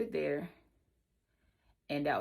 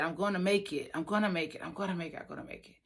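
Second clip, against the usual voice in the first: repeated, softer each time until whispered; fading to a whisper; 3 semitones lower, 6 dB quieter, much faster than usual. Retold or imitated. Bride reassuring herself after breaking down, fading to whisper. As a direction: let it fade to a whisper. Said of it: "fading self-reassurance".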